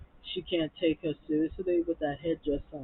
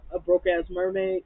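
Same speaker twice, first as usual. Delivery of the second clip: drunk mocking question; 2 semitones higher, 5 dB louder than usual. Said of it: "Fallon was like".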